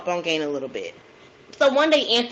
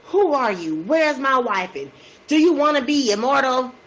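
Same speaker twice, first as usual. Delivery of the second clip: raised, agitated questions a bit louder; mock spazzing out; 4 semitones higher, 3 dB louder than usual. Husband spazzing at his wife when questioned, agitated raised voice. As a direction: act like he's snapping at her. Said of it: "he spazzes on her".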